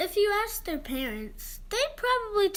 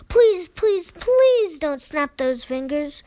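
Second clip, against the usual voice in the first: loud pleading; 10 dB louder than usual. Acted. Begging readers not to snap.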